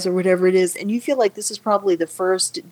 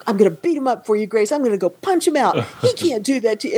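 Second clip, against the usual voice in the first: lightly acted protective outrage, pitch raised; mock indignation; 3 semitones higher than usual. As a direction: imitate a husband rushing to her defense. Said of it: "he was instantly infuriated".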